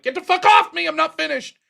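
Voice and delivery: a retold yell at his friend. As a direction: shove off the friend mid-piss.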